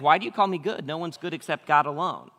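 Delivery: a hint of gentle sarcasm; mildly sarcastic Jesus. Jesus gently correcting the young ruler, lightly sarcastic. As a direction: correct him with a knowing edge. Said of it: "sarcastically try to correct him".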